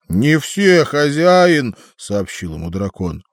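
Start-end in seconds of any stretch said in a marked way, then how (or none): 0.1-1.8 высокий голос дракона; поправить хозяина драконом. A narrator's reading. Дракон отвечает. (голос дракона)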